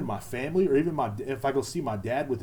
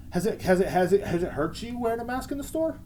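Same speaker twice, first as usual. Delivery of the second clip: mocking question; 8 semitones higher than usual. Mocking anti-mask people.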